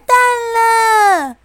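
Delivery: high shrieking panic; terrified scream. A narrator's reading. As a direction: shriek it out in terror. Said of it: "小猪吓得尖叫".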